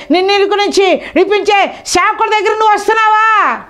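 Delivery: fiery revival preaching; preaching at full force. Acted. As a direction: challenge the crowd, voice lifted.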